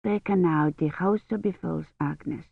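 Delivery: soft, slow soothing mother; mother soothes her sobbing daughter; gentle mother. A narrator's reading. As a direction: comfort the weeping child gently. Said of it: "wiped at the tears".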